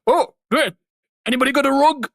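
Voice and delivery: high-pitched Irish-accented impression; excited imitation with an Irish lilt; Jacksepticeye. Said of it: "Jacksepticeye's like".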